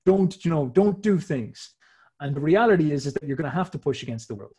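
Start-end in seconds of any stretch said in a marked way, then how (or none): 0.1-1.7 higher, louder preachy scold, slow at the end; hammed-up nagging moralist crying don't; mock moralist scolding. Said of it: "They'll be like".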